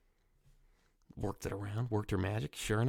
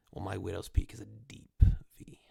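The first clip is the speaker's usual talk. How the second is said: whisper; 3 semitones lower than usual. Real, not acted. Confiding joke about hairline.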